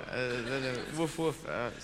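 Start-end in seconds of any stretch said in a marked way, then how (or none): 1.0-1.5 Woof, woof as an English dog barks, softer; a quiet, clipped Woof, woof. Retold or imitated. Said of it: "Snowy actually goes".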